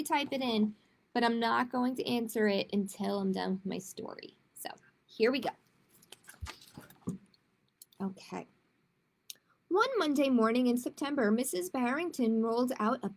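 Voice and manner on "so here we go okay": whispered, slow and secret. Real, not acted. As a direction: lean in and breathe it slowly.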